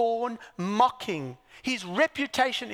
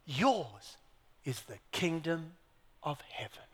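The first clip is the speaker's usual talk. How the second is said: lower, fading to a whisper; 6 semitones lower, 8 dB quieter than usual. Acted. Preacher whispering the promise to listeners. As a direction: drop it to a breath. Repeated hushed climax.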